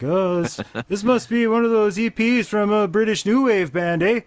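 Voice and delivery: high, hammed-up Canadian hoser; goofy hoser guessing at a record; Bob and Doug voice. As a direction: play the dopey brother, all wide-eyed. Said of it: "and they're like".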